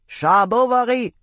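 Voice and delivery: high, loud desperate bawl; new boy blurting it at full volume. A narrator's reading. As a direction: shout your name as if calling someone far away. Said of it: "bawled at the top of his lungs".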